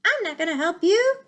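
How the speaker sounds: high, loud owl screech. Acted. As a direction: shriek a refusal from the treetop. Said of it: "screeched the owl".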